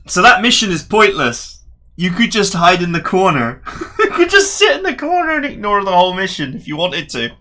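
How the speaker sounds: high, loud, laughing complaint; incredulous amusement. Real, not acted. Player finding the mission pointless, loud laughing disbelief.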